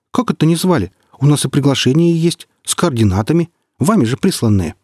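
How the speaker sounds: high, rising protest stressing "звали"; 「звали」を強く、高い声で抗議; indignant surprise. Acted. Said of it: "опешила голова".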